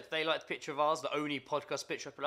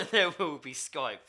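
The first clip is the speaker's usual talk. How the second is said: slow, louder, laughing title drop; movie trailer voice; 5 dB louder, slower than usual. Pretend. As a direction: announce it like an epic movie title. Mock film title, laughing.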